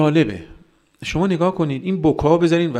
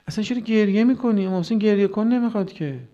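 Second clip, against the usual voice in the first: high-pitched, protesting objector's voice; dismissive objector; 9 semitones higher than usual. Acted. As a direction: challenge the weepers in a raised pitch. Voices those who dismiss weeping. (اعتراض تحقیرآمیز با صدای زیر)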